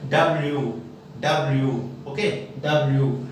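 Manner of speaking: "डब्ल्यू" with rounded lips on lyoo. Shown as a demonstration. Teacher drills students on W, rounded lips. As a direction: round the end of "डब्ल्यू" like whistling. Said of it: "थोड़ा सा round करना है".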